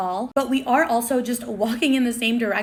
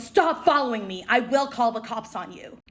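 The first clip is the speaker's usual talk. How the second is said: mild mock yell; retold angry warning. Celebrity warning off a fan, mildly acted angry yell. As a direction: act out a firm threat, only slightly raised. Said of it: "this man yelled at me".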